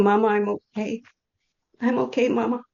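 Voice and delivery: high voice, holding back tears; emotional. Real, not acted. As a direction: pass on a tender message while choked up. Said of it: "I'm very emotional".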